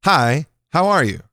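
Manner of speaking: a slightly livelier, committed greeting; like you mean it. Shown as a demonstration. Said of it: "say it like you mean it".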